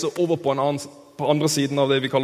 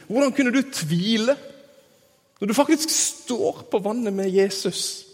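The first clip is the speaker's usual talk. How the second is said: mock-indignant, raised-pitch scolding; selvrettferdig bebreidelse; 4 semitones higher than usual. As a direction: scold him like a self-righteous believer. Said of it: "den selvrettferdige, skinnhellige, kristne stemmen". (spilt, skinnhellig forargelse)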